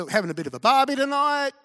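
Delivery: pitched high and eager, asking a favour; the dog asking the cows, high and bright; eager animal voice; high excited farm animal. Acted.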